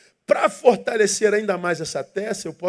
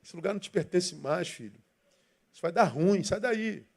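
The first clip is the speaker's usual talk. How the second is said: softer, tender voice of conscience pleading; gentle inner voice; 3 semitones lower, 7 dB quieter than usual. Retold or imitated. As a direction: coax the child away from danger softly. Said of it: "Tem uma vozinha lá dentro falando assim".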